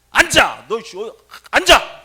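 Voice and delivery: loud, high, angry order; shouted command. Retold or imitated. Priest ordering the young patient to sit, angry shout. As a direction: bellow it with a drawn-out push.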